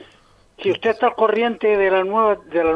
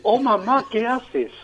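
higher, spelled-out call to mom; niño preguntando a mamá; 4 semitones higher, slower than usual. Retold or imitated. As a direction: act a kid asking mother, word by word. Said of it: "¿Qué es lo que decíamos?". (niño que pregunta a su madre, más agudo)

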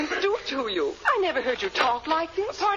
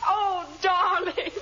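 tearful; 5 semitones higher, slower than usual. Acted. Woman greets long-lost husband tearfully.

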